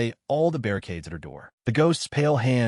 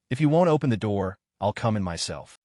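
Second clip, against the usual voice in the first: cold. Acted. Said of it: "the female ghost coldly declares".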